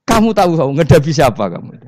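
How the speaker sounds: high, loud booming interrogation; angel's stern shout. Acted. Grave angel shouting at Umar in the tomb, high and loud. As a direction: bellow the question down at him.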